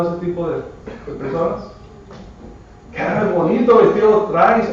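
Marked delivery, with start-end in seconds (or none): 2.9-4.7 mock flattery. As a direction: fake compliment, sugary and insincere. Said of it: "quiere decir que hablan también de usted mismo". (halago fingido, un poco más agudo)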